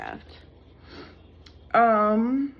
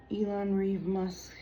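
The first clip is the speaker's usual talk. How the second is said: whispering; 5 dB quieter than usual. Retold or imitated. Decoding the name.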